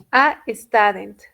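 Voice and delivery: "A student" said slowly and clearly; teacher models "A student" slowly; slow correct model. Shown as a demonstration. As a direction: give "A student" as the right form. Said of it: "solamente tiene que ser a".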